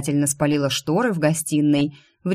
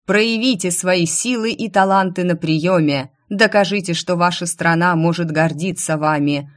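loud, ringing public announcement; herald's proclamation; 3 dB louder than usual. Acted. Herald announcing royal decree to the crowd, ringing proclamation.

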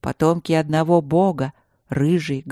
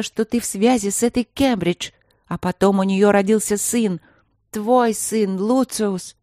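higher-voiced bitter queen; queen accusing her husband of infidelity, bitter; 4 semitones higher than usual. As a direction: hurl years of grievance at him.

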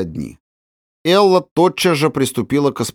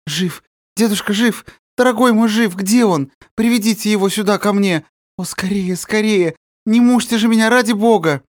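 high, breathless overjoyed pleading; girl frantic with joy begging to see him; babbling with joy; 11 semitones higher than usual. Acted. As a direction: tumble the words out in happy disbelief. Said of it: "лепеча бессвязно".

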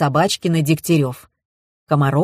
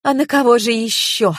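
high, indignant retort; 7 semitones higher than usual. A narrator's reading. Widow answers investigators' question about registration, indignant. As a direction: raise the pitch in mild outrage. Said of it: "возмутилась Комарова".

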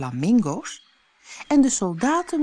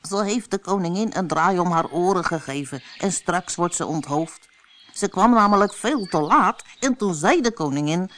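lightly voiced rabbit, hushed gossip; a jittery rabbit telling secrets; nervous rabbit; 2 semitones higher, 4 dB louder than usual. White rabbit tells Alice about the duchess, lightly voiced and nervous.

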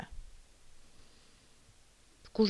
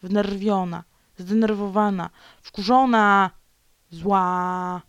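each word louder, ending loud; building anger; 7 dB louder, slower than usual. Real, not acted. Vlogger listing her anger, getting louder. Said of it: "Zła jestem".

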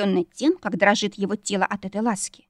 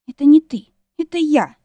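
high, loud tearful outburst; sobbing; 7 semitones higher, 7 dB louder than usual. A narrator's reading. Wife blaming herself to husband, acted sobbing. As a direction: blurt it out through mock sobs. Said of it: "всхлипнула".

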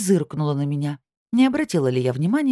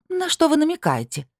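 much higher, shrill-edged indignation; flaring up; 13 semitones higher than usual. A narrator's reading. Анна Андреевна flares at Белоконь's hint, high and indignant. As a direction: shoot up in offended pitch. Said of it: "взвилась Анна Андреевна".

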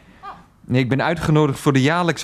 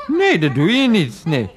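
raised, emphatic rebuttal; challenging. Acted. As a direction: dare her, pitched up. Calls mother's bluff.

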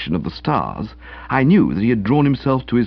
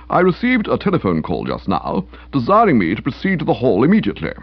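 stiff official. Acted. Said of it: "stiffness of manner".

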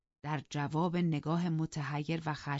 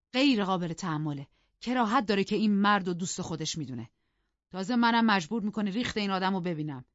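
raised-pitch indignant complaint; outraged, moderately raised voice; 4 semitones higher, 4 dB louder than usual. Acted. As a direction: fume about an unwanted guest. Husband fumes at wife's guest.

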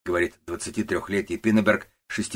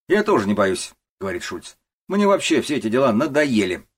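defiant clerk; 5 semitones higher, 7 dB louder than usual. Acted. Шульц громко храбрится.

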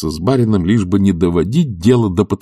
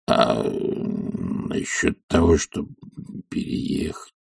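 much softer, slow mumbling servant; meek old servant; 4 semitones lower, 6 dB quieter, much slower than usual. Acted. Zakhar asking his master timidly, hushed. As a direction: ask humbly, almost under the breath.

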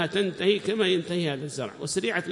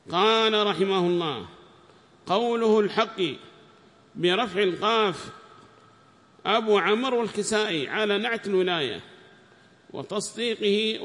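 raised, measured text-reading voice; reading aloud; 4 semitones higher, 4 dB louder than usual. Acted. Student reads the tafsir text to the teacher in a raised reading voice. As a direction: read the commentary out to the class.

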